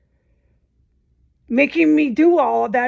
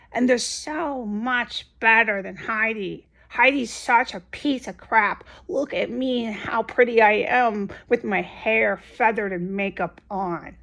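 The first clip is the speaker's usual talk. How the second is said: mocking smug voice. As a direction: sneer it like a vain girl admiring herself.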